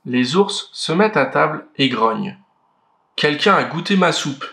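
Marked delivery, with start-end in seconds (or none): 3.2-4.5 lightly voiced big papa bear; a hint of a gruff father bear; the father bear finding his soup touched, a light big-bear voice. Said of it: "de sa grosse voix".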